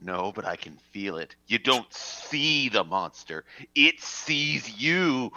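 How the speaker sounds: chill them with the last line; ominous, slow. Acted. Ominous monster warning.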